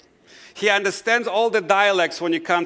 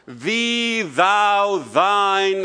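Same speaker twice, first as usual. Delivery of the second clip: drawn-out, raised King James pronouns; King James English prayer; 2 semitones higher, 4 dB louder, much slower than usual. Shown as a demonstration. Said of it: "King James English accent".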